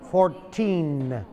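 "fourteen" with a sounded final n; clear teen ending. Shown as a demonstration. Teacher contrasting "fourteen" with forty. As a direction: finish "fourteen" on the n. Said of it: "igual con forty".

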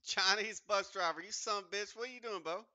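loud, high put-on Chinese accent; hammed-up fake Chinese accent yelled over voice chat; loud mocking Chinese accent. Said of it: "cut that goddamn fucking Chinese accent out".

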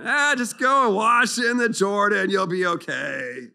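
high, loud, offhand church secretary; curt secretary. Acted. Church secretary to general Naaman, loud and dismissive. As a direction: brush him off from the doorway.

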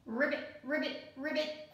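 lightly voiced ribbit croaks; frog croak. Frog answering the child, mild croak. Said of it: "croaked the frog".

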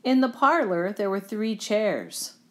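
lively, well-projected storytelling; storybook narration. A narrator's reading. Reader telling children the Goldilocks tale, lively storybook narration. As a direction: read it out like a picture book.

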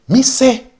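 me sé said loud, high and slow; loud Patois demo. Shown as a demonstration. Teacher shows the Patois me sé, loud and drawn out. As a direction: belt out me sé with a big lift. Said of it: "yo dije o yo digo".

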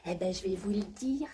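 secretive whisper; conspiratorial whisper in character. Acted. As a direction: lean in and whisper it.

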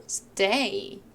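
"stay" read slowly with firm emphasis; strong stress. Shown as a demonstration. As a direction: lean on "stay" as a key word. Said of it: "강하게 읽으실 부분".

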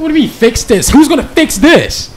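high-pitched, incredulous comeback; exasperated, laughing at the end; incredulous protest. Acted. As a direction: throw the demand back, pitch shooting up. Nick argues back, incredulous.

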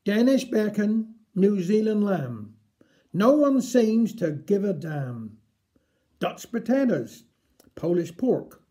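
measured, deliberate verse recital with a lift on each item; poem reading. Acted. Presenter reading a listener's poem to the audience, steady recital. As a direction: recite it line by line like a rhyme.

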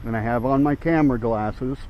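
speaking without dentures; gummy, toothless speech. Real, not acted. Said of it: "no dentures in".

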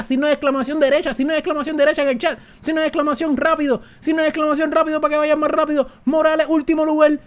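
rally the viewers, voice up high; excited calling out. Real, not acted.

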